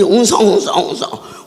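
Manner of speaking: quick mock murmuring of a crowd. Preacher imitating the suspicious crowd, quick mock murmur. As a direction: rattle off the murmur fast. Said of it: "사기다 웅성거릴 때".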